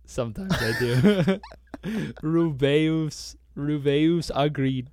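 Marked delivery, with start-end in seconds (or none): 2.2-4.9 slow Spanish-accented name. Shown as a demonstration. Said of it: "Do you say it with an accent?".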